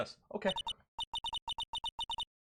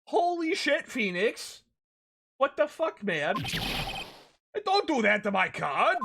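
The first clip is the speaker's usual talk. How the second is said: shocked outburst; 8 semitones higher, slower than usual. Real, not acted. Reacting to card being destroyed.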